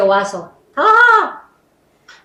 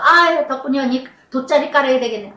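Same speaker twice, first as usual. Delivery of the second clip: rude mocking quote; faster than usual. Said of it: "아주 무식하고 쌍스럽고".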